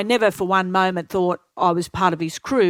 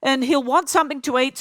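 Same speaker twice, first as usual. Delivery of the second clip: higher, airy reassuring darling voice; Ken's airy voice; 7 semitones higher than usual. Retold or imitated. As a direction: breeze through it like a fussing friend. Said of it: "He goes".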